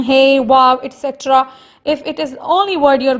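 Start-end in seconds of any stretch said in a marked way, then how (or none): 0.0-0.8 mild exclamation. Shown as a demonstration. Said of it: "this is a kind of expression".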